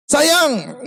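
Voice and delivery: "Sayang" called out high; calling out "Sayang". Retold or imitated. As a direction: shout the pet name tenderly. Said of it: "manggilnya sayang".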